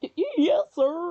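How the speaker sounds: voice breaking mid-word, high, cracking stammer. Answering the scary Detective Gumshoe, voice cracking. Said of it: "Voice crack".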